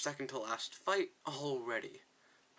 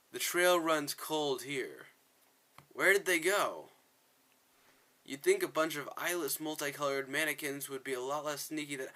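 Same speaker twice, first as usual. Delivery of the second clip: acted game dialogue; 3 semitones higher, 5 dB louder than usual. Reads game dialogue aloud in character.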